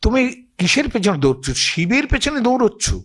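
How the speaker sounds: playful goddess chiding the demon; মোহিনীর ঠাট্টার সুর; Mohini teasing. Acted. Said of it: "ইনি পৌঁছানোর আগেই বললেন যে".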